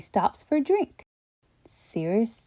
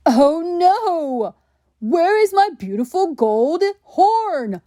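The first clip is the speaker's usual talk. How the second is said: high, loud panicked cry; cries out; 7 semitones higher, 4 dB louder than usual. Acted. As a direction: wail it out in shock. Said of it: "cries Steve".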